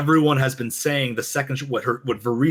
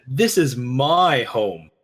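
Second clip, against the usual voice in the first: sharp-tongued retort; much slower than usual. Retold or imitated. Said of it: "with the sharp tongue says".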